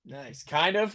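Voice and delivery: muffled, hollow mic sound; inside a fishbowl. Real, not acted. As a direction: voice boxed in a fishbowl. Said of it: "do I sound like I'm in a fishbowl?".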